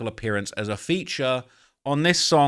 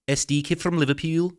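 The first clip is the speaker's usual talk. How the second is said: higher-pitched Liverpool accent attempt; mock Scouse accent; 4 semitones higher than usual. Shown as a demonstration. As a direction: slip into amateur Scouse. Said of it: "That's my best attempt".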